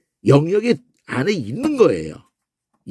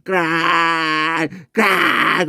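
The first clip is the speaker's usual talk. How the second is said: long crow-like yelled CRY; drawn-out cry. Shown as a demonstration. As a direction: stretch cry into a harsh scream. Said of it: "이거하고 똑같은 거예요". (길게 내지르는 외침)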